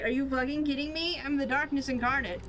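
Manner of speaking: mad dark god. Acted. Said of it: "It's, like, mad".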